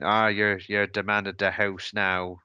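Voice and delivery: lightly imitated Irish relatives' accent; poor Irish accent. Aunties and uncles to the bereaved son, poor imitated Irish accent. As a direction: put on a poor, half-hearted Irish accent. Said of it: "that's my very poor Irish accent".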